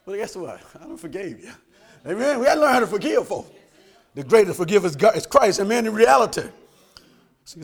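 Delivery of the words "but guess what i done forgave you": quiet forgiving words to dad. Retold or imitated.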